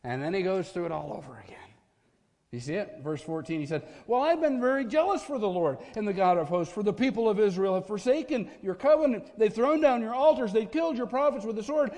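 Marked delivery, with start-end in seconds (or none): 4.1-11.9 anguished complaint. Acted. Elijah cries out to God, voice building in desperation.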